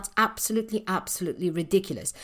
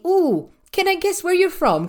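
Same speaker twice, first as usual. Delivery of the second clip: higher, louder intrigued "ooh"; curious guesser; 9 semitones higher, 5 dB louder than usual. Retold or imitated. People she meets guess where her accent is from, curious. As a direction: imitate an eager stranger guessing. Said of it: "and then they say".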